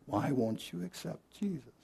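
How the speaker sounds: high, soft, hushed whisper. Retelling what a woman said to a man, retelling a whisper. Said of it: "she whispered".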